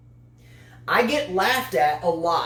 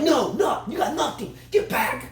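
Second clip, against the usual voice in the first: imitating his wife; 5 semitones higher than usual. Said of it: "she's like".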